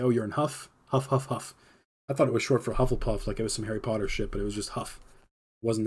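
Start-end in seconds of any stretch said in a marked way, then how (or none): 0.0-1.5 mock old-timers. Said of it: "They'd say".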